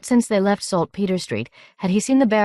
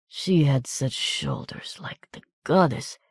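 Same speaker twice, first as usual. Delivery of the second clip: whispering; 4 dB quieter, slower than usual. A narrator's reading. Wounded man whispers, unvoiced.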